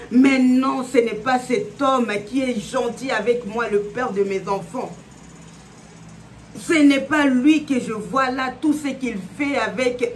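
understated incredulous protest; disbelief. Acted. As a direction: voice a wife refusing to believe it. Léa's heart refuses what she saw.

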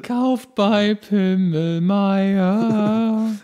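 loud, drawn-out radio jingle delivery; cheerful ad voice. Pretend. Klaus reads the ad line as requested, slow cheerful radio voice. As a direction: sell it like a cheesy Christmas radio spot. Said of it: "sag deinen Text fröhlich und freundlich".

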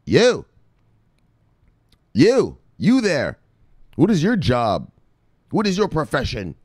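a lightly voiced king singling out one man; commanding king. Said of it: "He was like".

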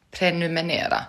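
"prenumerera" said as "pre-nu-me-ne-ra", N for the second R; mispronounced prenumerera. Real, not acted. Streamer unsure of the word, mispronouncing "prenumerera" as "prenumenera". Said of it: "uttalar jag det jättefel".

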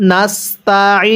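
নাস্তাইন with a long final ee closed on n; pausal reading. Shown as a demonstration. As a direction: stretch the end of নাস্তাইন, no final vowel. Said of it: "ওয়াকফ করলে কিভাবে পড়ব".

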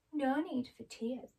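gentle, slow and kind; soft friendly voice. Acted. Glinda comforting crying Dorothy, soft and friendly. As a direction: soothe a crying girl. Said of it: "a soft, friendly voice".

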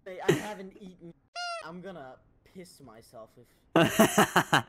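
loud scared yelling; panicked yelling. Real, not acted. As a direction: yell it out in panic. Loud panic in horror game.

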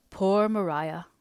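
gently sorrowful sigh of a name; tender. Acted. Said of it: "replied Mister Hale tenderly".

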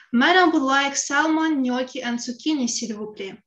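playing the fine lady ordering dinner; wife grandly ordering from her husband-cook, hammed up; theatrical. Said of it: "I say and theatrically wave my hand".

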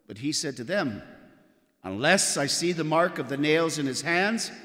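Gospel reading. Acted. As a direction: read it like the Gospel at Mass. Priest proclaims the Gospel at Mass.

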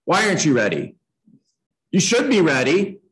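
demanding, pitch climbing at the end; pushy. Shown as a demonstration. Agent pressuring a client to be ready, pushy. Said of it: "one is pushy".

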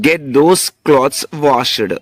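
very slow, word by word; slow teaching read. Shown as a demonstration. Teacher dictating slowly to learners. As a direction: drag each word out clearly. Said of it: "Once again".

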